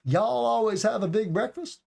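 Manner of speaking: high question tune rising on "breakfast"; Southern question tone. Shown as a demonstration. Teacher gives the Southern version to learners, question tone. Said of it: "So you can hear the tone".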